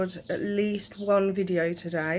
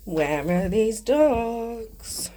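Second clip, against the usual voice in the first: mock scolding; 3 semitones higher, 5 dB louder, much slower than usual. Scolding the dogs playfully.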